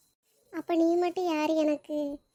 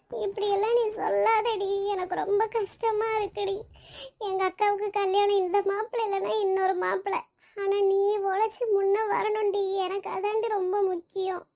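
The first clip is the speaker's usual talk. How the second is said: higher, teary voice close to crying; tearful pleading; 4 semitones higher than usual. Acted. Friend in tears begging her best friend to go on, tearful. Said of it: "இப்படி எதுக்கு அழுதுகிட்டு இருக்க?".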